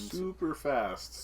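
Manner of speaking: slow, dragged-out words; slow drawn-out emphasis. Pretend. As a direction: stretch each word out slowly.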